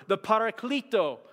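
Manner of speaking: "Paraclito" in a slip into a Hispanic accent; accidental Hispanic-accented "Paraclito". Real, not acted. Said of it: "that was a Hispanic accent".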